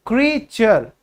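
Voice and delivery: क्रीचर said clearly as "kree-cher", ending in "cher"; correct pronunciation demo. Shown as a demonstration. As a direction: model क्रीचर slowly for students to repeat. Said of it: "इसकी सही pronunciation क्या होगी". (क्रीचर का साफ़ उच्चारण)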